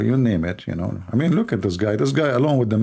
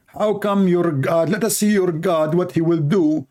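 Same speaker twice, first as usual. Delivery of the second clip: higher, taunting voice of a heckler; mocking heckler; 7 semitones higher than usual. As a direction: needle him with a raised, mocking tone.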